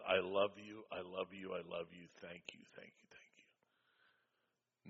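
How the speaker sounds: fading to a whisper. Retold or imitated. Stranger's wife hugging him, overwhelmed.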